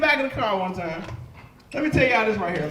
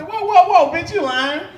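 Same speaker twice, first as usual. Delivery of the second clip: louder, higher outraged protest; indignant shout; 5 semitones higher, 6 dB louder, slower than usual. Retold or imitated. Son cutting off a funeral eulogy, loud outrage. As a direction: cut her off loudly.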